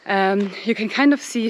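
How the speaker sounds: talking while out of breath; breathless from walking uphill. Real, not acted. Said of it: "sorry, I'm so out of breath".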